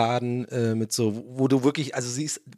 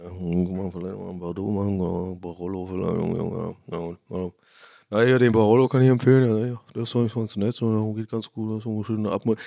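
smug wine expert; 7 semitones lower than usual. Retold or imitated. Wine seller recommending Bordeaux, Barolo.

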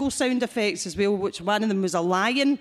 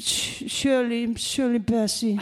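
slow, drawn-out diva name; impersonation of a singer; 2 semitones higher, slower than usual. Retold or imitated. Prank caller giving a fake name to the clinic, slow and grand. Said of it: "doing an impersonation of a singer".

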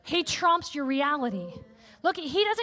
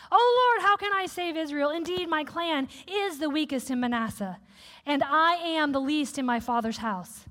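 whiny Gideon. Acted. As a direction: whine it like a doubting Gideon. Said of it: "I'm gonna say that again".

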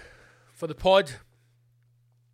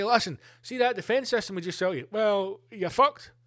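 arms salesman; 4 semitones higher than usual. Retold or imitated. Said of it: "and say".

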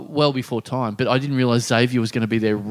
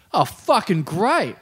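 pissed off; 3 semitones higher than usual. Retold or imitated. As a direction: imitate a sulking, left-out friend. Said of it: "he walks in actually pissed off".

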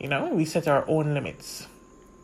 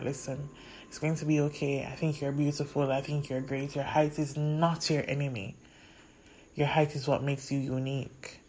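put-on softer and gentle, like hugging a child; tender comfort; 5 dB quieter than usual. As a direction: comfort her younger self. Imagined hug and comfort to younger self.

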